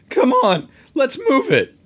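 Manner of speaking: high urgent shout. Acted. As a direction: hurry her along, loud and high. Spike urges Carly.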